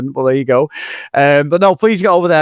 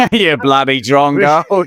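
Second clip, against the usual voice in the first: put-on slow, laughing Australian accent on bloody drongo; drawn-out Aussie insult through a laugh; mock Australian accent; slower than usual. Cohost bantering back at his co-host, laughing mock Australian accent. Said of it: "our Australian accents next week".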